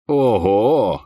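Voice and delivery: протяжно, с оттенком насмешки; изобрази удивлённый смешок в голосе; с лёгким хохотком. A narrator's reading. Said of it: "хохотнул Най". (чуть насмешливое, весёлое удивление)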